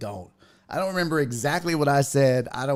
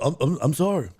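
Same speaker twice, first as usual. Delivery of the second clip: mock stammered apology; retold sheepish, stumbling sorry; repeated apologizing; 3 semitones higher, faster than usual. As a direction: imitate him falling over himself to apologize. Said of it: "he just kept apologizing".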